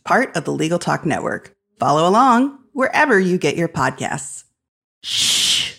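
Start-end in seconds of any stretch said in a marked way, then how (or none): 5.0-5.7 shushing. Acted. Library host shushing listener.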